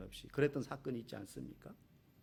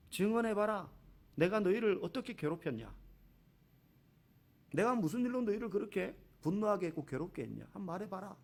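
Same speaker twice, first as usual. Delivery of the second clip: God challenging; 4 semitones higher than usual. Retold or imitated. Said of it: "하나님 말씀하십니다".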